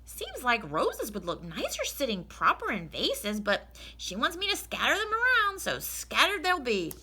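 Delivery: good-natured housemaid thinking aloud; Amelia Bedelia. Acted. Amelia muses to herself.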